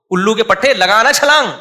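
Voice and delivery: mother yelling at her son at the pool. Retold or imitated. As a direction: scold the child shouting. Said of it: "وہاں تو شور مچایا ہوا تھا".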